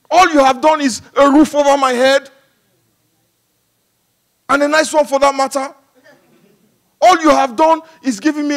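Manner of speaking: building from grumbling into a loud, high indignant rant; mock whining complaint to God. Preacher mimics ungrateful believer griping to God, mock indignant rant.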